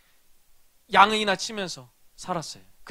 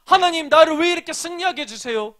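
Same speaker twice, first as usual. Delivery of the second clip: grateful prayer; 5 semitones higher than usual. Retold or imitated. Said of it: "다윗이 하나님께 이렇게 고백하는 거예요".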